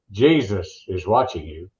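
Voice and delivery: low slow mock parrot warning; eerie parrot voice. Parrot voice in told joke.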